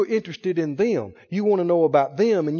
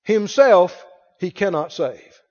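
slow, drawn-out mock; 3 dB louder, slower than usual. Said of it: "the chief priests mocked".

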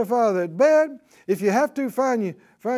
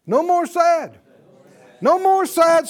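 higher, louder ringing proclamation; proclaiming; 7 semitones higher, 8 dB louder than usual. Real, not acted. Preacher declaring to the congregation, loud proclamation. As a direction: ring it out in triumph.

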